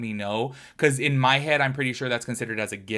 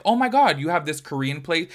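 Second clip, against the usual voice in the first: mock excited visitor; 5 semitones higher, 4 dB louder than usual. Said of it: "they're like".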